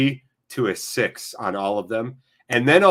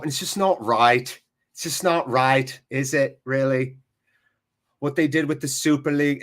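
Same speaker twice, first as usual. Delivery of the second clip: lightly voiced northern English pundit; Gary Neville. Streamer tries a pundit on Manchester United, light impression. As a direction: attempt a Manchester pundit's match commentary. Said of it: "I'll try Gary Neville".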